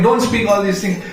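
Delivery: scolding. Acted. Servants around silencing Gopakumar, scolding. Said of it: "they are scolding".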